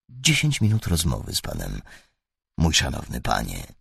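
sweeten every word to disarm him; sweetest voice. A narrator's reading. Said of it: "odparł Holmes najsłodszym głosem". (najsłodszym, miękkim głosem)

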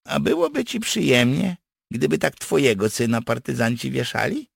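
high-pitched indignant challenge; snapping reproach. Acted. Partisan rebukes a friend who wants hangings, indignant. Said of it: "ofuknął go Wędrowicz".

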